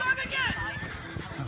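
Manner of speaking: slow drawn-out high gasp; shocked and amazed; surprised. Acted.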